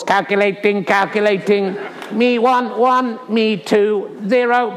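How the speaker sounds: flat robotic monotone. Pretend. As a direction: read it like a computer. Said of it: "Let's go to robot voice for the scores".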